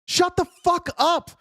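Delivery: enraged outburst at the whiners; furious shout. Real, not acted. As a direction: tell them off at full volume. Ranting at MAGA critics.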